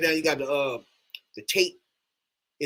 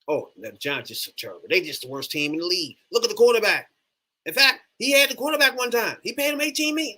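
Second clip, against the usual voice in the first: whiny mock of the know-it-all fans, climbing higher as it goes; 5 semitones higher than usual. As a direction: parrot the fans' dumb takes with a sneer. Mocking the fans' talking points.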